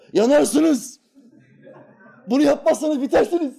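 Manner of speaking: mock hellfire preacher shouting high. Mocking preachers who shout at the congregation, high mock yell. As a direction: imitate a preacher yelling from the pulpit. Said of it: "diye seslerini yükseltiyorlar".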